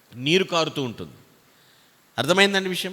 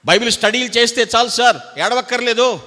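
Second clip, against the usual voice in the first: higher, louder mock of a smug objector; mocking congregant; 6 semitones higher, 5 dB louder than usual. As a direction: parody the know-it-all. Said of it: "ఒక ఆయన అంటాడు". (ఎగతాళిగా ఎత్తైన గొంతుతో)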